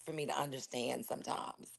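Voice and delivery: hushed whisper, voice unvoiced. Real, not acted. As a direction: whisper so the guest won't hear. Private comment while guest present.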